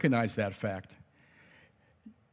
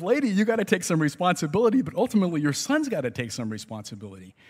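exasperated; 6 semitones higher, faster than usual. Retold or imitated. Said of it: "I'm saying to myself".

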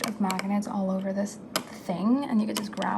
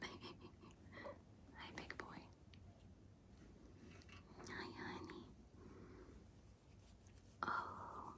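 soft cooing to a pet; 2 semitones higher, 20 dB quieter than usual. Real, not acted. Greeting her cat Dorian lovingly, a soft coo.

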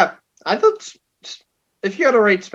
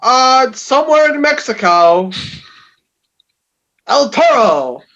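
slow, stretched announcer intro; ring announcer; much slower than usual. Acted. Introducing the cohost's segment as a ring announcer. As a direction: draw out the name like a ring announcer.

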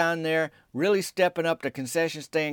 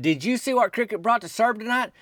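higher-pitched excited teammate's question; excited retelling; 7 semitones higher than usual. Retold or imitated. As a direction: blurt it like an eager player. Acting out an excited Myron's question.

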